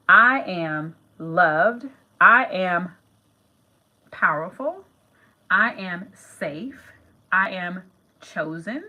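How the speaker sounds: slow, deliberate I am statements; measured self-affirmation, stressing each I. Shown as a demonstration. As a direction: declare each one as a vow. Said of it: "speaking affirmations aloud".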